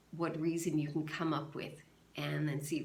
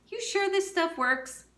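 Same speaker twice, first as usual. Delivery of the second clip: doubtful man; 13 semitones higher, 6 dB louder than usual. Acted. Walter doubtful, voiced by reader.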